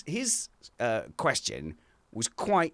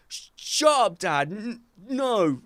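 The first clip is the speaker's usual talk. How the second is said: higher, flustered protest; embarrassed son; 9 semitones higher, 4 dB louder, slower than usual. Retold or imitated. Dad imitating son embarrassed about girls, higher. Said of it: "And he's all like".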